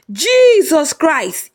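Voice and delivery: high, slow, drawn-out cry of shock; shocked scream. Acted. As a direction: wail it out in horror. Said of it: "Ikechi screamed".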